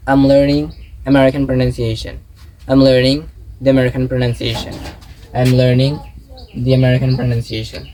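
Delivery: slow, measured drill with "I'm" as one syllable; connected contraction drill. Shown as a demonstration. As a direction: model "I'm learning" in careful chunks for learners. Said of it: "নেটিভরা কিন্তু এরকম বলে".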